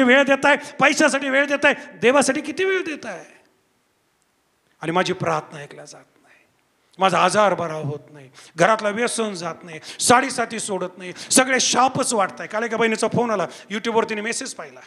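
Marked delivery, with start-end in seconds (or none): 4.8-12.5 voiced low and softer, as a discouraged believer; mock lament in a lowered voice; downcast complaint. Preacher voicing a believer's unanswered prayers, downcast.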